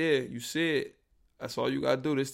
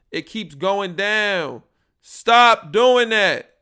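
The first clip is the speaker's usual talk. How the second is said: high, loud, slow frustrated yell; screaming at the mic; 7 semitones higher, 9 dB louder, much slower than usual. Real, not acted. Podcaster yelling at his dropping mic level, loud and slow. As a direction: yell at the level meter to stop. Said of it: "I scream and it goes down".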